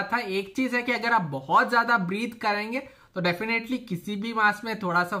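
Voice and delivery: muffled through face covering; speaking behind fabric mask; talking through cloth mask. Real, not acted. Seen 5: Mask covers mouth and nose throughout labelled words; unmasked later.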